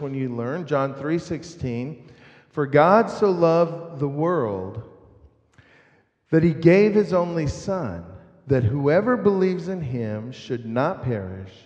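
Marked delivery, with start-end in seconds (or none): 2.5-11.5 measured, deliberate scripture recitation; solemnly paced Bible verse, falling away at the end. Real, not acted.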